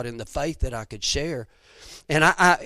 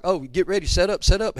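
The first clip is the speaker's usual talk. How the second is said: mock urgent hunting-guide call, slightly raised; excited guide; 4 semitones higher than usual. Hunting guide telling client to get ready, mildly excited. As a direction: lightly imitate a guide hurrying the hunter.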